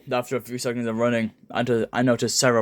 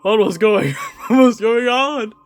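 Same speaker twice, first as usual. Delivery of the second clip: high, loud panicked yell; acted panic; 12 semitones higher, 7 dB louder than usual. Narrator losing grip as Sonic finds Knuckles, panicked yell. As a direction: cry out in hammed-up alarm.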